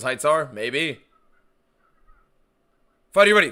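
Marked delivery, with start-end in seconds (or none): 3.1-3.5 booming fighting game announcer. Retold or imitated. Imitating fight announcer intro.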